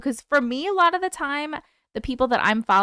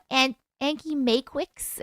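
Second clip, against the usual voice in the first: imitating toddler; slower than usual. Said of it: "the way she says, like, Auntie Matrix is so cute".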